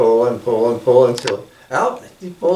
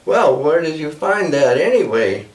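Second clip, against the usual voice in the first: lightly voiced old grandmother owl, a bit higher; a hint of a fussy old owl woman, quickened at the end; 3 semitones higher than usual. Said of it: "That's the way she talks".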